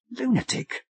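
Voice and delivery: "Lunatic!" thrown out high as a startled realisation; shocked exclamation. A narrator's reading. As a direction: blurt out "Lunatic!" in alarm.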